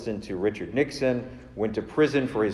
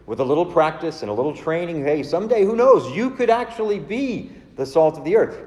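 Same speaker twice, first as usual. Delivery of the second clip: mocking what-if; 5 semitones higher than usual. Mocking what Jesus doesn't say.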